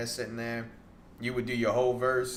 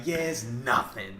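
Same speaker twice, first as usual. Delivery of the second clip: casual confidence; 3 semitones higher, 4 dB louder, slower than usual. Retold or imitated. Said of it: "Like, he was so confident".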